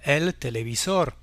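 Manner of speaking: televisor stressed on SOR; Spanish televisor with final-syllable accent; stress on last syllable. Shown as a demonstration. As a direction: say el te-le-vi-SOR, landing on "sor". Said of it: "on accentuera la dernière syllabe pour dire".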